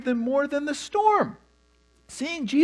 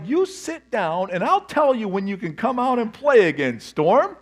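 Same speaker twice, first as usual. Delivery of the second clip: stern parent scolding; 5 dB louder than usual. Retold or imitated. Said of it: "He was like".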